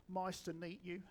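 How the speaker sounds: NICE TO MEET YOU with first sounds of nice and meet swapped; muddled greeting. Retold or imitated. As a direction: fumble "Nice to meet you" as "mice to neet you". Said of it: "mumbles the words".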